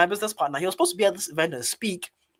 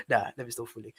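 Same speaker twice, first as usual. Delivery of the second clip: ordinary talk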